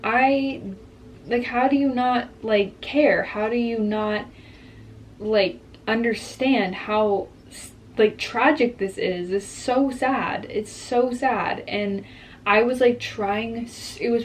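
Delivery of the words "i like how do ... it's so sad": raised, pleading disbelief; exasperated plea. Retold or imitated. To her ex, imagined shaking him by the shoulders, pleading higher. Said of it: "shake him by his shoulders and be like".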